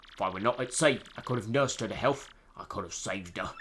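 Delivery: put-on story narrated in a rough British accent; awful British accent. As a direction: tell the tale in a bad British accent. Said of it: "my awful British accent".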